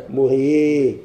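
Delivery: slow, deliberate model of مغي; teacher lays out مغي word by word; slow teaching example. Shown as a demonstration. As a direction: spell the rule out slowly for students. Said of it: "يجب كي نقول".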